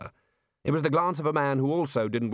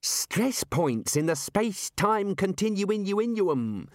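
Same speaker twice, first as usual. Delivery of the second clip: wizard voice; 8 semitones higher, much slower than usual. Acted.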